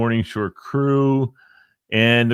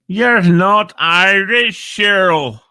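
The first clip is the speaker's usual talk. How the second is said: slow, louder, higher playful jab; mock teasing; 9 semitones higher, 6 dB louder, slower than usual. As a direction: tease her with a mock accusation. Teasing a listener.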